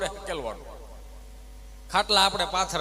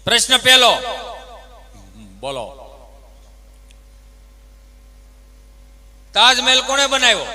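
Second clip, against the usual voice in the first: quizzing teacher; 10 dB louder than usual. Retold or imitated. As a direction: fire the question like a strict examiner.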